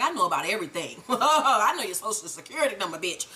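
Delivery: low, laughing villain voice; a hint of a smug kingpin; mock menacing Milan. Recapper voicing Milan taunting Tommy, low and smug. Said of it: "And Milan's like".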